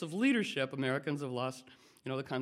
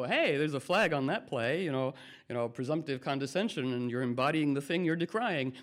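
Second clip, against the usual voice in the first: referee call. Pretend. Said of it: "more effective player to go".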